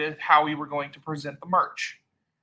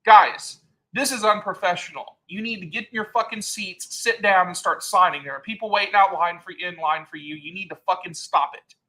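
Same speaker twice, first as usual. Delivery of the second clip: louder, higher mock yell at the triplets; yelling at the triplets to sit down and sign; retold yell; 3 semitones higher, 4 dB louder than usual. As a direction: bark it like you're fed up. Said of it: "I did yell at them".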